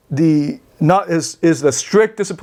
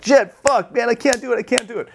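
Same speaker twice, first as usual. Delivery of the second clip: acted self-frustration; 8 semitones higher than usual. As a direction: curse yourself, then tail off defeated. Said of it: "he's really hard on himself".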